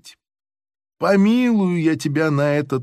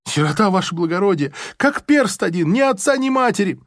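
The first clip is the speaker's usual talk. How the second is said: rushed plea; 4 semitones higher, faster than usual. Acted. Prisoner pleading orphanhood.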